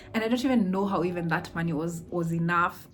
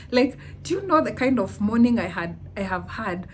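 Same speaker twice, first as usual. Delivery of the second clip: indignant inner rant; 3 semitones higher, 5 dB louder than usual. Retold or imitated. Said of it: "that was my internal processing".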